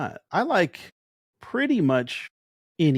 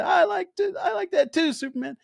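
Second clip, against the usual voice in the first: excited cheer; 12 semitones higher than usual. Retold or imitated. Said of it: "I said".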